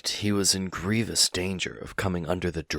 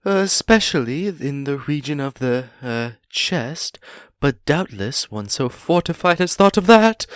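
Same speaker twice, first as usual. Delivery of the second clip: much higher, louder frightened squeak; a tiny voice squeaking in fear; 12 semitones higher, 8 dB louder than usual. Acted. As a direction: Bilbo daring a sly question while terrified. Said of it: "in a frightened squeak".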